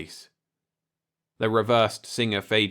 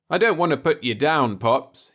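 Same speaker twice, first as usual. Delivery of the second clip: strained grunt while lifting; 6 semitones higher, 6 dB louder than usual. A narrator's reading. Repairman lifting the TV set, grunting. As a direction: grunt it out under the weight. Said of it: "he said, grunting".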